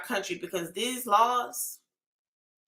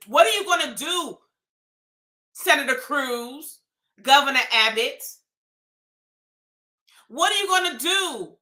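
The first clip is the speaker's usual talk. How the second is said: angry rant; 2 semitones higher than usual. Real, not acted. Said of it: "That's my rant".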